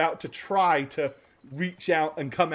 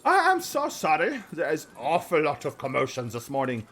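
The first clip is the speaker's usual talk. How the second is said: high, flustered, apologetic voice; a harried woman gushing apologies; high, hurried, fluttery matron voice; frazzled headmistress; 8 semitones higher than usual. Acted. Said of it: "She looks at you and she says".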